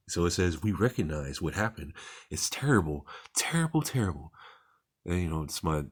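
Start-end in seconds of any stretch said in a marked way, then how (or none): 0.6-4.3 put-on British voice, pitch climbing on the repeats; lightly hammed-up British accent; mock British accent. Speaker mimics UK government's response to atrocities, mock British accent. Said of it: "this is my best British accent".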